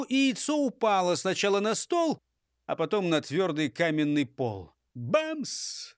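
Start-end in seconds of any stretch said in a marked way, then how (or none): 4.9-5.9 high sudden bang; imitated crash. A narrator's reading. Narrator voices egg hitting stone floor, high bang. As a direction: voice the crash of the fall. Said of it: "Разнеслось по подвалу".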